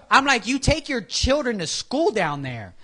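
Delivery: high, loud mock reply; mocking retort. Retelling a church chat, a high loud mock retort. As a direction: fire back a teasing jab.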